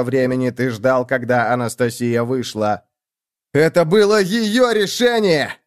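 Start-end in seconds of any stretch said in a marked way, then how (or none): 3.5-5.6 high, loud yell; furious shout. A narrator's reading. Boy screaming at the computer, high and loud. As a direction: scream the excuse at the machine. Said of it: "заорал парень".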